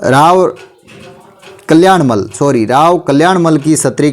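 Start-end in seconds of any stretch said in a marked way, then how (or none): none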